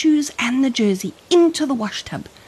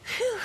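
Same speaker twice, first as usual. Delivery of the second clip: breathy phew; 9 dB quieter than usual. Acted. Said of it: "waved her hand ... as a fan".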